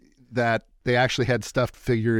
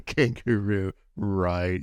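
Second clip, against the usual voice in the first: skeptical retold reaction; 3 semitones lower, much slower than usual. Acts out own doubt at menu.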